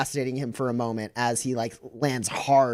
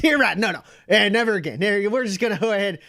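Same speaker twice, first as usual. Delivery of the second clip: placating backtrack; 4 semitones higher, faster than usual. Acted. Backtracking apology acted in game.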